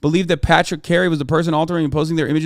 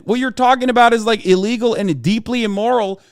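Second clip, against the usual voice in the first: ordinary talk, nothing marked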